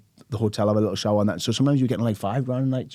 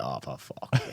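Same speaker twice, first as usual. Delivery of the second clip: low, much softer mock groan of dismay; weary groan; 9 semitones lower, 9 dB quieter, much slower than usual. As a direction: sink into a tired grumble. Dismay at Freshers booking.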